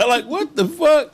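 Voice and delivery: laughs through the words, high and slow; laughing. Real, not acted. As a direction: cracks up while saying it. Laughing at the absurd moment.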